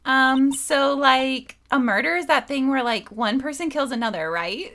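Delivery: put-on Valley Girl. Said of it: "Like, Valley Girl's good for this".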